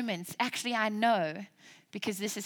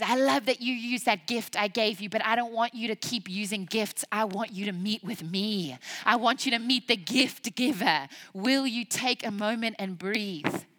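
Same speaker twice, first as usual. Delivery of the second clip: inviting God. Acted. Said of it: "God says".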